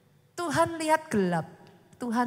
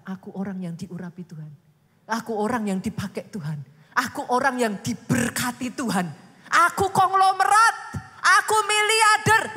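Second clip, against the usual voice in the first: bold declaration building; 7 dB louder than usual. Shown as a demonstration. Preacher modelling confessions, building to a loud boast. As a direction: proclaim it bigger and bigger.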